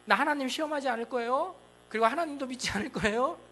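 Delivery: sharply high, haughty no; the proud king brushing God off; arrogant refusal. Retold or imitated. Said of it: "교만해가지고요". (교만하게 거절하는 왕)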